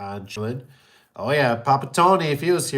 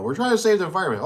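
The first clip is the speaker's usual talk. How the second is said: mocking quote; 7 semitones higher, 3 dB louder, faster than usual. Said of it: "the stuff they shove down our throat".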